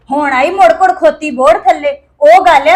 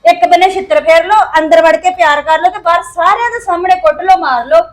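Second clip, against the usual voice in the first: bitter sarcasm; 4 dB louder than usual. Acted. Wife sarcastically berates husband.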